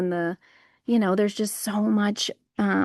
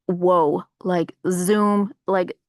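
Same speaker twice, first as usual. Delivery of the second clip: excited sound effects; 4 dB louder, much slower than usual. Retold or imitated. Mimicked sudden viral rush.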